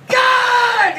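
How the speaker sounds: sudden high yelp of fright; startled shout. Retold or imitated. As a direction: jump and yell at the cat.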